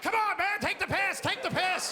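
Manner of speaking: impatient guy. Retold or imitated. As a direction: hurry the man ahead. Guy behind urging.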